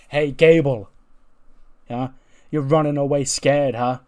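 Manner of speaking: loud jeering call across the arena; taunting shout. Retold or imitated. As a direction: yell after him to mock the retreat. Punk yelling at fleeing Gable.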